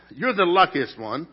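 preacher teasing his wife Rhonda, loud and laughing; joking to wife. Pretend. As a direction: play it big and teasing for your wife. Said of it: "I get to tell my wife".

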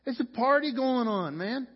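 high, loud mock cheer; cheering crowd. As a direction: whoop it up like the congregation at a baptism. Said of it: "you guys are like".

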